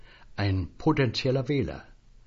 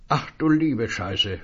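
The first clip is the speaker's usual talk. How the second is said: slow; 4 dB louder than usual. Acted. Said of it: "hörte er sich sagen".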